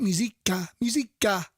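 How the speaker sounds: Musica repeated as "mee-ZEE-ka"; trying out pronunciation. Shown as a demonstration. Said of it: "Is that how you say it".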